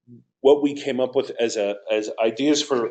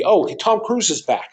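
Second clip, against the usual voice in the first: excited audience voice; 9 semitones higher than usual. Retold or imitated. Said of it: "it's not gonna be".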